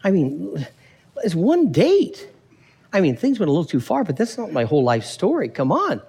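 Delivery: lightly acted incredulous protest; protesting simple guy. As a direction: brush it off, a bit defensive. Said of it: "the simple guy's like".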